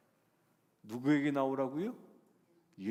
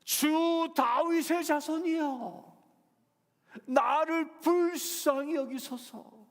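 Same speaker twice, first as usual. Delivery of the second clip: loud, high, slow plea; a desperate mother's loud plea; earnest crying out; 9 dB louder, much slower than usual. A narrator's reading. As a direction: cry out to Jesus for mercy. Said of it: "간절히 외칩니다".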